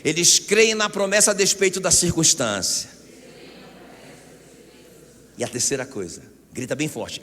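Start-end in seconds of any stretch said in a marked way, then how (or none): 0.0-2.9 loud, emphatic line to be repeated; rallying shout. Shown as a demonstration. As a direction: call it out for the congregation to echo. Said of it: "Grita assim". (grito de pregador puxando o povo)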